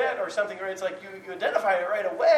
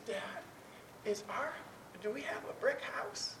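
put-on tearful child; 2 semitones higher, 13 dB quieter than usual. Upset daughter asks dad at bedtime, soft tearful child. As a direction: imitate a timid, tearful daughter. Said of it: "I could tell she was crying".

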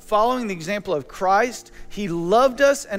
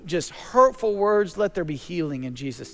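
prayer; 3 semitones lower than usual. Acted. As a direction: pray it aloud, unhurried and sincere. Prays aloud to God.

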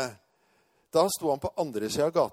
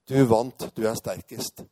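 lower-pitched concession after a big sigh; deflated; 4 semitones lower, 5 dB louder than usual. Retold or imitated. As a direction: give up like a punctured balloon. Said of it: "som å stikke hull i en ballong".

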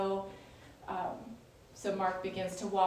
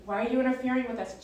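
louder, higher, rushed challenge; crying out; 5 semitones higher, 7 dB louder, much faster than usual. Retold or imitated. Spirit trying to take authority over Jesus, crying out. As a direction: cry out quickly in protest. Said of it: "he cries out".

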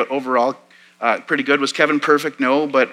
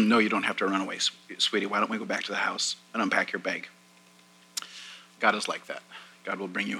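soft, lowered voice of a comforting mother; gently reassuring; 3 semitones lower, 9 dB quieter, faster than usual. Retold or imitated. Mom holding her runaway daughter in the grass, gently reassuring. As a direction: soothe a child quietly, voice dropped low.

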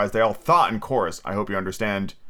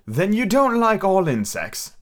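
gnat; 8 semitones higher, slower than usual. A narrator's reading. Gnat speaking.

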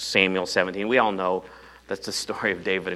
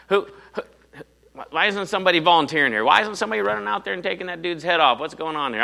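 indignant; 8 semitones higher, faster than usual. Acted. David indignant at the cowards.

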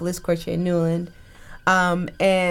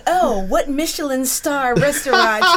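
mock posh awe; 6 semitones higher, 3 dB louder than usual. Mocking Americans' posh assumptions.

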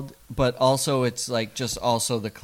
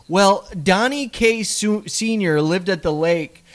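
a hint of gossiping mom; mother voice; 4 semitones higher, 5 dB louder than usual. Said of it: "as she then says".

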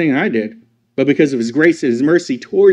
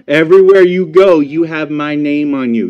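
put-on called out to kids; 4 dB louder than usual. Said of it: "And I tell my kids now".

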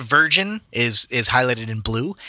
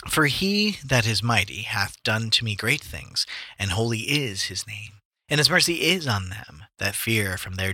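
measured, declamatory Bible reading; scripture reading; 2 semitones lower, 4 dB quieter than usual. A narrator's reading. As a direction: read it out like scripture. Reads scripture aloud.

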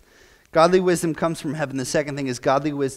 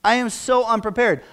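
retold crying out; 7 semitones higher, 5 dB louder than usual. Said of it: "I remember crying out".

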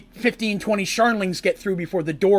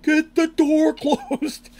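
frantic yell; 9 semitones higher, much slower than usual. Retold or imitated. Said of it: "you can picture them running like".

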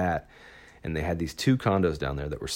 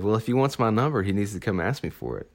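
lightly imitated sassy girl, quick and higher at the start; kinda sassy; 4 semitones higher, faster than usual. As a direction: toss it back with mock sass. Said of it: "she's kinda sassy".

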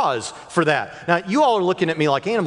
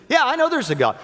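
imitating young daughter; 9 semitones higher than usual. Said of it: "They said".

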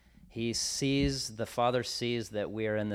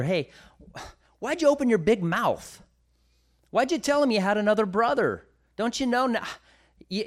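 put-on high, loud, scolding old father; the father berating his sons, pitched way up; high, loud upset father's rant; exasperated father; 9 semitones higher, 4 dB louder than usual.

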